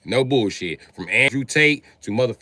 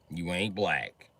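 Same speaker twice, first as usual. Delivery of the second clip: quiet slow; 7 semitones lower, 8 dB quieter, slower than usual. Acted. Repeated, quieter.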